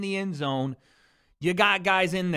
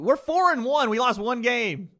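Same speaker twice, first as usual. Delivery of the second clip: heated; 5 semitones higher than usual. Real, not acted. Defending team to chat.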